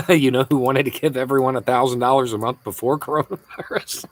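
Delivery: reading out a question through laughter; amused, laughter bubbling into the words; laughing. Real, not acted. Amused reading of viewer comment.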